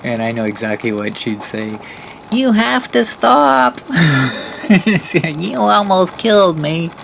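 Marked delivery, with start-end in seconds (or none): 2.3-3.8 put-on very high, loud, raspy old lady yell; Mobility Mary. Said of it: "that's how she talks, with that really raspy voice and the high pitch". 3.8-5.3 high laugh. Retold or imitated. Laugh during impression. 5.4-6.9 very high, loud, raspy outraged yell; slow, shrill accusation from an old lady; Mobility Mary. Retold or imitated. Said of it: "that's how she talks, with that really raspy voice and the high pitch".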